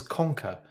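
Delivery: "conca" with a hard K in the middle; Spanish word attempt. Shown as a demonstration. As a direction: say "conca" as "KONG-ka". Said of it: "Ben says in Spanish".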